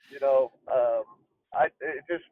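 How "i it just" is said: fighting off giggles; stifled giggles. Real, not acted. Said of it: "I'm actually trying not to laugh".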